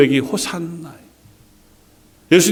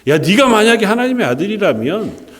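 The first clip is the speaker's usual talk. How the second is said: higher-pitched taunting challenge; mock him with a raised pitch, lightly acted; acted mockery; 4 semitones higher than usual. Crowd taunts Jesus on the cross, mocking. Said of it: "얼마나 큰 조롱을 합니까".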